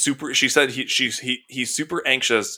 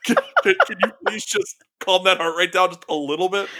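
imagined dog begging, giggles breaking in; laughing mock plea; 3 semitones higher than usual. Voicing an anxious dog for a co-host, laughing mock plea. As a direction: stammer a pleading request through laughter.

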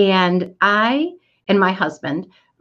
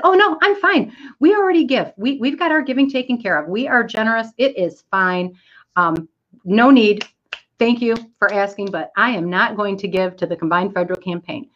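insistent cheery refusal; 3 semitones higher than usual. Retold or imitated. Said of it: "I said".

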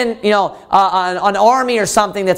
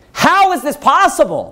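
pitched higher, in wonder; higher astonished how; amazed question; 6 semitones higher than usual. Retold or imitated. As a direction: cry out the author's disbelief. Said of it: "he is expressing his amazement".

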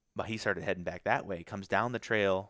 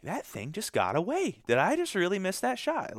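frustrated disbelief; 11 semitones higher than usual. Retold or imitated. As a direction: replay the annoyed self-doubt. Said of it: "I'm all pissed 'cause I'm like".

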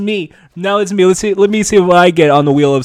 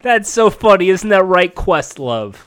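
Jimmy Fallon; 2 semitones higher than usual. Acted. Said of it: "Jimmy Fallon impression".

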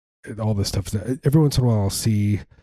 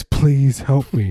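put-on feeble old man plea; 4 semitones higher, 3 dB louder, much slower than usual. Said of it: "that guy who always says".

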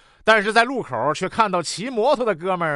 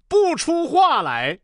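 high, drawn-out declamation; dramatic recitation; 6 semitones higher, slower than usual. Acted. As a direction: recite it slowly with misplaced grand emotion. Climax of botched dramatic reading.

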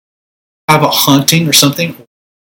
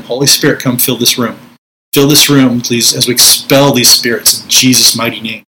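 authoritative command. Shown as a demonstration. Minister demonstrating spiritual warfare to viewers, firm command. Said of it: "It's authoritative".

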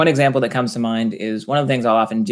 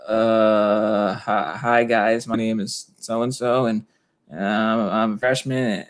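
nervous mumble; slower than usual. Retold or imitated. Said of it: "they get all nervous".

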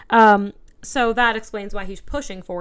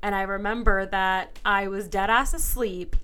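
ordinary delivery

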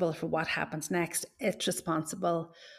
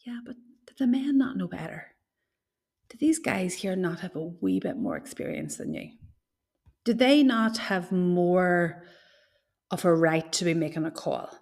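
long-suffering martyr mummy; a hint of a long-suffering mother. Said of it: "like my martyr mummy voice".

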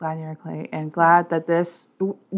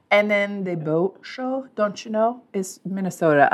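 put-on Minnesota accent; 5 dB quieter than usual. Hamming a Minnesota accent for her cohost. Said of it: "I can do a lot of accents".

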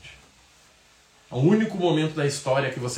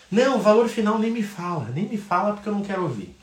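nem me fala, assustado; agitado; 7 semitones higher than usual. Retold or imitated. Cliente recusando ouvir o valor. (cliente agitado recusando o preço)

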